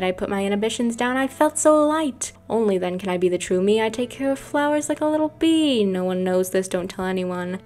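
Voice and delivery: sing-song showy character voice, pitch leaping up at phrase ends; loud, swooping cartoonish performer; Boy Boy Mysterio. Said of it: "Now I gotta do the Boy Boy Mysterio voice".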